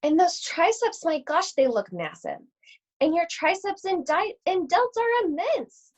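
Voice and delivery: put-on a girl gawking at huge arms; amazed little Red. Red marvels at granny.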